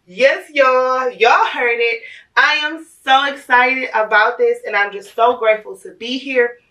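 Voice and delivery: excited. Real, not acted. Excited unboxing intro to viewers.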